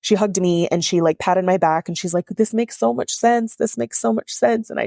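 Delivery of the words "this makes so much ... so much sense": higher, slower comforting repetition; tender validation, pitched up; retold soothing. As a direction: gently reassure someone who is crying. Coach comforting her as she cries.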